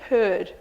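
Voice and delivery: "Heard" said alone with a falling tune. Shown as a demonstration. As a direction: give one clean falling "Heard". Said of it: "could you just say heard?".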